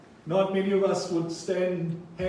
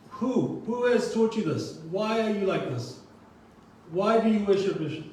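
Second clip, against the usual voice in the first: raised, demanding questions as the furious father; angry king; 4 semitones higher than usual. Retold or imitated. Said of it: "He's very angrily saying and stating".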